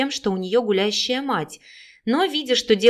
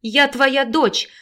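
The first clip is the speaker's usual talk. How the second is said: slow, hoarse plea; hoarsely; 5 semitones higher, 3 dB louder, much slower than usual. Acted. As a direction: rasp it out slowly through tears. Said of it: "прохрипела Виктория". (прохрипеть медленно)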